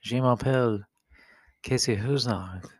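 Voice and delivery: lightly put-on French accent. Answering a co-host's French greeting in a light French accent. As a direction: introduce yourself in playful French. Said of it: "That was French accent".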